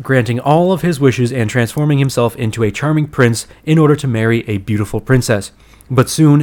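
lightly dramatised movie summary read; synopsis read-out. Acted. Host reading Aladdin's synopsis to listeners, announcer-like read-out. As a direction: read it out like a film blurb.

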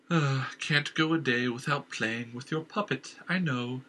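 sneering tease at the king; mocking inner voice. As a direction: scoff at his attachment to his wife.

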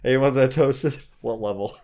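a mock Subway worker cracking up; laughing mock worker. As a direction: tease like an overeager sandwich artist.

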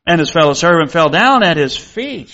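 measured reading of scripture to the congregation. Acted. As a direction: read the Bible passage aloud with solemn care.

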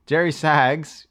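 slow, booming ring announcer call. Pretend. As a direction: draw the name out like a wrestling intro. Introducing a wrestler, drawn out.

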